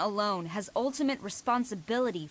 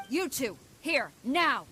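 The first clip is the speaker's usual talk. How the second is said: stern command; 4 semitones higher, slower than usual. Acted. Commander summons subordinates sternly.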